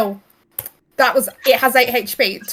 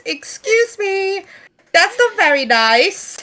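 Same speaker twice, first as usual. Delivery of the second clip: offended creature voice; 7 semitones higher, slower than usual. Acted. Pokemon voice offended.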